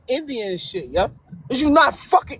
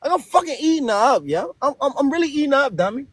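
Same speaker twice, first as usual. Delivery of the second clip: fast boasting; faster than usual. Pretend. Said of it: "practice that shit a little longer".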